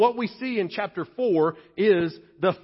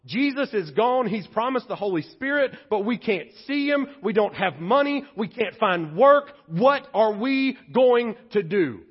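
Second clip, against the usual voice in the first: worried church members; 3 semitones higher, 4 dB louder than usual. Retold or imitated. Voicing a worried young church.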